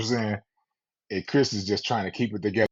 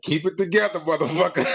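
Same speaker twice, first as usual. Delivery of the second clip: hissed urging; 7 semitones higher, 3 dB louder than usual. Retold or imitated. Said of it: "I'm like".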